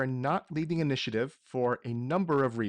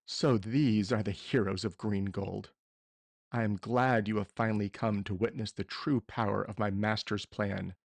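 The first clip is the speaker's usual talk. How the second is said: villain monologue; 2 semitones lower than usual. Acted. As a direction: gloat over the heroes like a villain. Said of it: "I'm gonna give a small villain monologue here".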